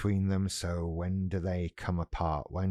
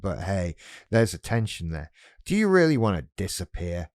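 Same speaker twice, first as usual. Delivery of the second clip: hammed-up pushy inner ego; blustering grandiose voice. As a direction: storm in and scoff at quitting. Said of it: "storming in and making a lot of noise".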